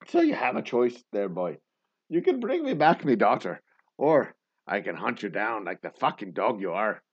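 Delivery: mock-Irish ultimatum at an everyday volume; bad Irish accent. Father offers the kidnapper a choice, in a bad Irish accent. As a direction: give a hammed-up choice in an Irish brogue. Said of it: "affect a bad Irish accent".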